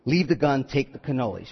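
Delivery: low, fading mobster lines; softening gangster voice; Godfather mobster. Retold or imitated. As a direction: drop into a Mafia boss murmur. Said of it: "That's what he's saying".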